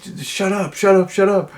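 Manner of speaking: high-pitched mock yelling; rapid mock shouting without full volume; imitated screaming. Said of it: "they're just, like, screaming".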